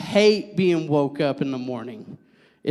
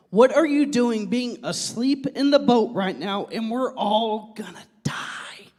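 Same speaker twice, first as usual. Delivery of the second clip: raised voice fading to a hush; panicked reproach; 4 semitones higher than usual. Acted. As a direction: scold the sleeper in mock panic. Acts out panicking disciples in storm.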